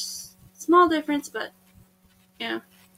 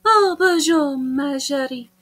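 drawn-out mock French; hammed-up French charmer with a thick accent; 3 dB louder than usual. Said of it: "I don't know how to speak French".

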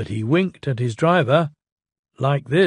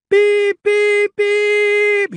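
much higher, louder whistle toots; calling whistle; 5 dB louder, much slower than usual. Acted. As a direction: call out with the train whistle. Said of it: "he called".

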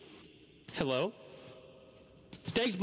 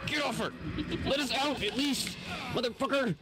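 yelling; 10 semitones higher, slower than usual. Real, not acted. Teammate grabbed by monster.

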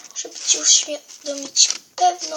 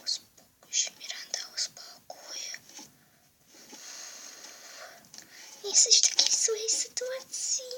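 soothing whisper; 9 semitones higher, 7 dB quieter than usual. Acted. Whispered voice calms Miranda.

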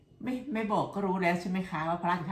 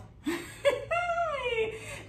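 high laugh. Real, not acted. Laughs at the story. (หัวเราะเสียงสูงลั่น)

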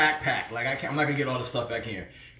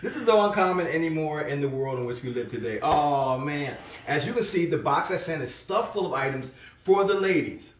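made-up letter-writer voice; 4 semitones higher than usual. Acted. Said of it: "I'm gonna make one up".

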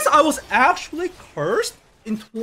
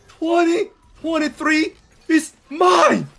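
drawn-out, triumphant declaration; slow proud proclamation; 5 semitones higher, 4 dB louder, slower than usual. Pretend. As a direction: announce it like a victory. Streamer boasts about new year.

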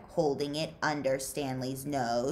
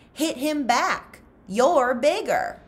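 urging on; 9 semitones higher, 7 dB louder, slower than usual. Acted. Pendanski urging a fight.

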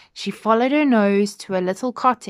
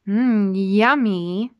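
yummy; 6 dB louder, slower than usual. Acted. Child enjoys food.

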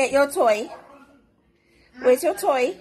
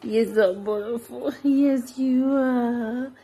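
cooing; much slower than usual. Real, not acted. Cooing to the dog.

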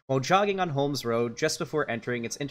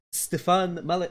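failed attempt at a Canadian commentator's accent, pitched higher; Stefan Molyneux accent; 5 semitones higher than usual. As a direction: try his accent and fall short. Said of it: "I can't do the Stefan Molyneux accent".

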